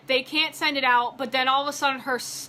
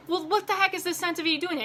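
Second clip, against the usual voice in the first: laughing disbelief; 6 semitones higher than usual. Retold or imitated.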